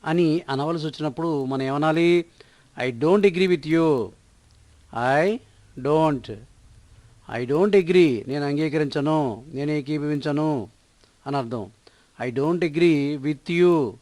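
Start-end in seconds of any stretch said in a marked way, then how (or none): 2.8-4.1 slow, word by word, clearly spaced; slow model sentence. Shown as a demonstration. Teacher to Telugu learners, modelling the English sentence slowly. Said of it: "teacher models the sentence slowly". 12.2-13.9 slow, word by word, clearly spaced; slow model sentence. Shown as a demonstration. Teacher to Telugu learners, modelling the English sentence slowly. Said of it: "teacher models the sentence slowly".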